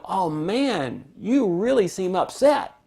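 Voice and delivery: understanding, empathetic response; sympathetic to frustration. Shown as a demonstration. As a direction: demonstrate commiserating concern. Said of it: "if they're really frustrated, you go".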